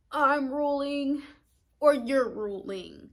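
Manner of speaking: domineering shout. Acted. Aries voice quoted.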